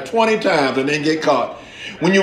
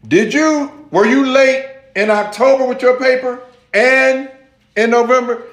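higher, pointed questioning; interrogating professor; 6 semitones higher than usual. Retold or imitated. Professor questioning student about late papers, interrogating. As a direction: act a professor building his case.

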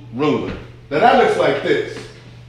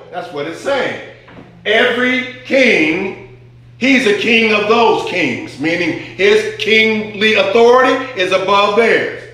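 raised, emphatic pulpit voice; preaching; 6 semitones higher than usual. Acted. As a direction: proclaim it to the congregation. Preaching the King of kings.

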